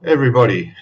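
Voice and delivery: high, bright sing-song hello to the viewers; cheery greeting. Real, not acted. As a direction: throw the greetings up high like a show host. Cheery livestream opening greeting.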